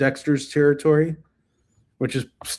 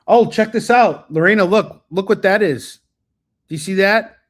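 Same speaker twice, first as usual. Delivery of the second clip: excited; 6 semitones higher, 8 dB louder than usual. Real, not acted. Showing wife a swastika on cover.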